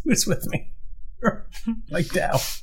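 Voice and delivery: roaring rallying speech. Acted. Rallying cry, high and laughing.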